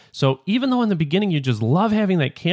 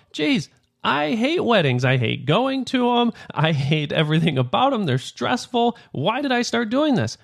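higher, slowed exasperated complaint; mock fed-up groan; 6 semitones higher than usual. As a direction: whine it like a burned-out wedding photographer. Fed-up photographer after several weddings.

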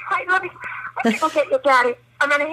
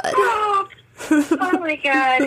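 crying, worn out; 3 semitones higher, much slower than usual. Real, not acted. Mother crying with joy.

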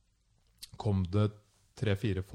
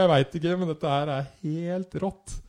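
awed excitement; 8 semitones higher, 5 dB louder than usual. Retold or imitated. Friend answers amid ritual.

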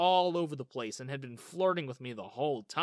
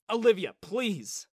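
stopping her; 5 semitones higher, 7 dB louder, slower than usual. Acted. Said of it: "I stopped her".

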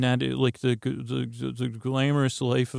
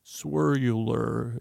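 slow, slightly robotic drawl; lightly robotic, drawn-out word; senseless robot; much slower than usual. Shown as a demonstration. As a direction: stretch it out like a mindless robot. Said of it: "almost sounds like I've turned into a robot".

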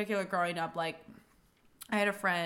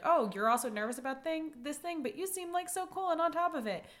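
higher, lively imitation of a relieved friend; relieved surprise; 5 semitones higher than usual. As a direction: act out discovering someone shares your nerves. Acting out relieved shared confession of nerves.

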